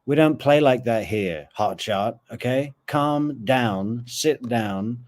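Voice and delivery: lightly acted unhurried official, reining someone in; mildly mocking, deliberate local drawing out the instructions; sleepy small-town locals. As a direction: put a hotshot in their place, step by step. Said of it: "all sleepy Tallahassee people are just like".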